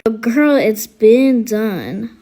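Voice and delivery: low, slow, drawn-out sass; sassy slang. Acted. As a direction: lean into it like a sassy teen. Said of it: "Stop talking like that".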